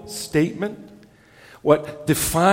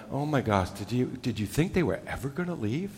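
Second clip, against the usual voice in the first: mock grumbling; 4 semitones lower, 10 dB quieter than usual. Mock host grumbling after guests.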